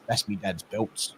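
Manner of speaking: put-on low, soft little boy's voice; a small boy showing off in a hush; hushed kid voice. Son bragging to his mate, hushed.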